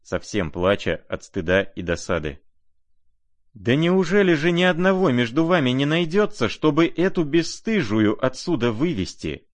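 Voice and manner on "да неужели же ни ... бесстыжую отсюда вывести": much higher, loud furious outcry; trembling with anger. A narrator's reading. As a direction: cry out shaking with rage. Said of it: "вся трепеща от гнева". (Варя в гневе вскрикивает)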